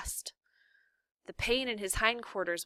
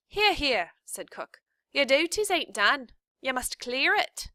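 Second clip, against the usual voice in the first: loud, high bossy cook voice; 6 semitones higher, 7 dB louder than usual. A narrator's reading. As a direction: order her about like a gruff cook. Cook bossing Mig.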